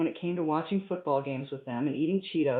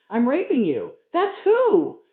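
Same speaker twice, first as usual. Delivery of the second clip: loud, higher triumphant shout climbing; proclaiming; 7 semitones higher, 7 dB louder, slower than usual. Acted. Narrator proclaims his win over Marvin, rising triumphant shout. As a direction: crow it out like a victory cry. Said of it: "before I proclaimed".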